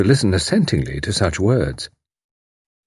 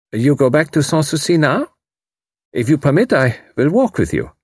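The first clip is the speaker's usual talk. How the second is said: stiff formal; 6 semitones higher than usual. A narrator's reading. Voices Karl.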